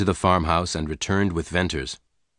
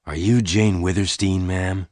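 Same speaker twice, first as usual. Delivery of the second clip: polite. A narrator's reading. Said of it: "he asked Jane politely".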